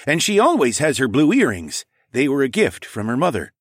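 lightly voiced king remembering her; king's voice. A narrator's reading. King telling hero about the earrings, lightly voiced.

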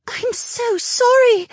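slow, high, loud gasp; aghast, eyes wide; gasping in dismay. Acted. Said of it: "Linnea gasped".

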